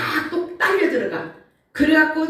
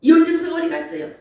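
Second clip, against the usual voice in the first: grumbling complaint; 5 semitones higher, faster than usual. Retold or imitated. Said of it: "속에서 막 짓거리는 거야".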